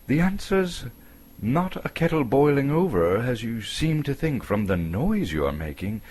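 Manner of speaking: impatient Bilbo. Acted. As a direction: scold him high and testy.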